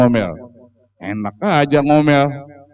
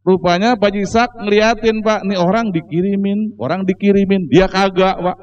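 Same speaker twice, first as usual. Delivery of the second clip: put-on higher, complaining old man voice; grumbling dead haji; 5 semitones higher than usual. Preacher voicing the dead haji, a mock grumbling old man. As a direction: whine that nobody sends prayers.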